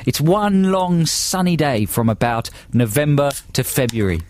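badly faked Australian explaining; mock Australian accent. Host explains endless Australian summer day, mock Australian accent. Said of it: "they're very poor Australian accents".

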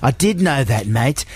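put-on Aussie mate telling a yarn; badly faked broad Australian; mock Australian accent. Australian friend finishes beach disaster tale, mock Australian accent. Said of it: "they're very poor Australian accents".

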